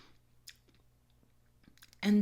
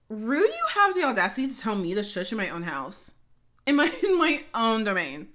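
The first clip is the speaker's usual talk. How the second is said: mock outrage; 4 dB louder than usual. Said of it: "I'm like".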